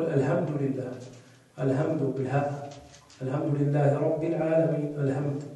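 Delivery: "الحمد" with a plain h, "alhamdu"; ha as light h. Shown as a demonstration. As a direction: weaken the ح of الحمد into ه. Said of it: "الحمد بالهاء".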